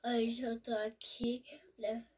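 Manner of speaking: whispering. Real, not acted. Child opening toy on camera.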